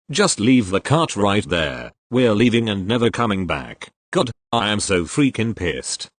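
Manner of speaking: a hint of a whiny, entitled shopper losing it; Basic bitch voice. Store customer ranting at the stocker, lightly mimicked entitled whine. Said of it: "Cue the Basic bitch voice and her rant".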